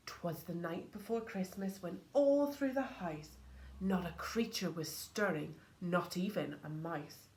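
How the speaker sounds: soft, gentle bedtime-story voice; hushed Christmas storytelling; storybook reading. A narrator's reading. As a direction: read it like a bedtime tale to children. Reads poem to listeners.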